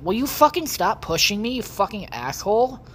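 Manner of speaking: angry yell. Real, not acted. Angry at dolphin in game.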